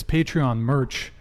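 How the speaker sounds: usual speaking voice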